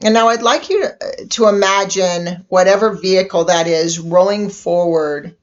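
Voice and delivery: unhurried meditation guide with long pauses; guided meditation. Acted. Inviting listeners to relax and imagine a vehicle, guided meditation voice. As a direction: gently lead listeners inward, leaving space between phrases.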